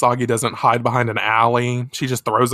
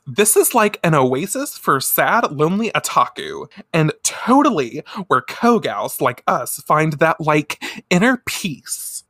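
lightly voiced valley girl; 3 semitones higher than usual. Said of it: "Raruna says".

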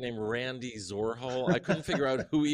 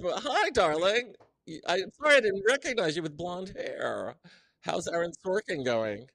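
gushing darling; 7 semitones higher, 3 dB louder than usual. Retold or imitated. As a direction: gush over her like an old friend, stretching it out. Jumped up, gushing over celebrity.

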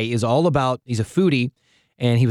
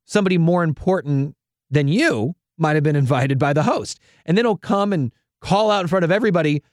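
scripture reading; 3 semitones higher than usual. Acted. Reads Luke scripture.

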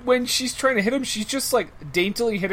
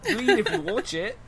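put-on South African accent; 9 semitones higher than usual. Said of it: "We're all doing South African".

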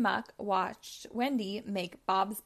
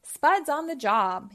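laughing; 5 semitones higher, 8 dB louder than usual. A narrator's reading. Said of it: "he laughed".

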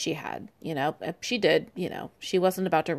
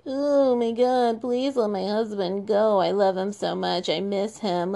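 mock tearful plea; 2 semitones higher than usual. Host mocks the queen's tearful plea, fake crying. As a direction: fake tears for her husband. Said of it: "made a tearful plea".

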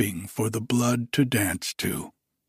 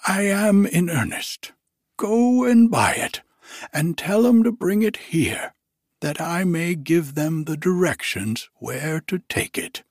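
put-on high, loud, elated old miser; giddy old Scrooge; 6 semitones higher, 3 dB louder than usual. Scrooge overjoyed on Christmas morning, high giddy voice. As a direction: bubble over with joy as old Scrooge.

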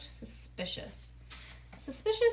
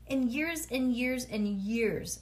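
slow drawn out; 3 semitones higher, 3 dB louder, slower than usual. Acted. Daddy emphasizing slowly.

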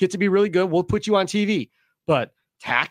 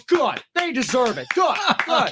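lightly imitated gleeful mother, pitched up; happy mom; 5 semitones higher than usual. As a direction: retell mom's satisfied little gloat. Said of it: "She was all happy".

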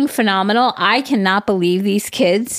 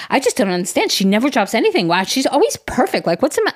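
higher, lightly whiny mom; 6 semitones higher, faster than usual. Retold or imitated. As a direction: imitate a baffled mom. Mimicking confused mother.

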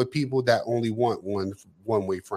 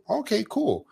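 a sharply higher, dry "okay, cool"; sarcastic okay; 10 semitones higher than usual. Retold or imitated. To a friend who never visits, sarcastic and pitched higher. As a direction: toss it off with mock approval.

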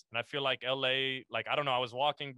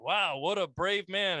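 slow, higher-pitched mock awe; mock admiration; 5 semitones higher, 3 dB louder, slower than usual. Imitating people praising the speaker as brave, mock admiration. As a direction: imitate impressed people, drawing it out. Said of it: "people are like".

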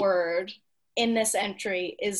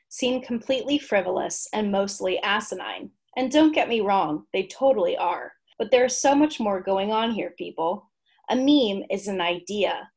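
measured, articulate read-aloud of a humorous essay; written entry reading. Acted. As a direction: present it like a comic encyclopedia entry.

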